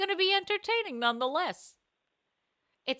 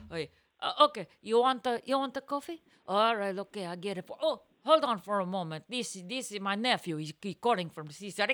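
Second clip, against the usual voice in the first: imitating Italian vendor. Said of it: "be like".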